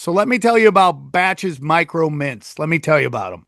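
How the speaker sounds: upbeat pitchman selling the product; ad read. Acted. Host pitching Batch Micro Mints to listeners, upbeat ad read. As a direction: sell it like a podcast sponsor spot.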